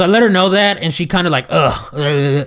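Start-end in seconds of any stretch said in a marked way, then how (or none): 1.5-1.8 imitated disgruntled "ugh"; complaining groan. Supervisor retelling a customer's reaction to bad news, complaining groan. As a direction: mimic an annoyed customer's groan. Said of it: "complaining and shit".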